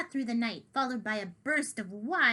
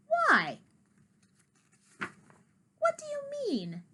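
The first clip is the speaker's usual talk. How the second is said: alarmed; 3 dB louder, much slower than usual. Acted. Kitty alarmed.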